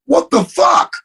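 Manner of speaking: a high, mock-startled yelp; mock shocked exclamation. The TV artist acting out his own fake shock as he drops his mask. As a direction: play the stunned customer who just recognized him. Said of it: "I pull my mask down, and I'm like".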